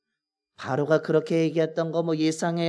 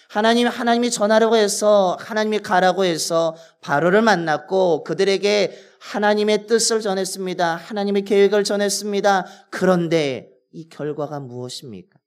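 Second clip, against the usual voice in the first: raised, louder pleading questions to God; pleading lament; 3 semitones higher, 4 dB louder than usual. Retold or imitated. Moses pleading with God over his failure, raised lament. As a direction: cry out why, as a wronged servant. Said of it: "라고 하면서 하나님 앞에 하소연하고".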